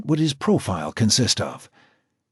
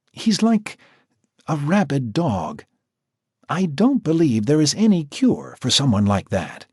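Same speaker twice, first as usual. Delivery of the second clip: higher, measured professional woman's voice; Natasha the doctor; 6 semitones higher than usual. A narrator's reading. Natasha explaining the profile to Jack, higher and measured. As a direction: speak as the composed doctor.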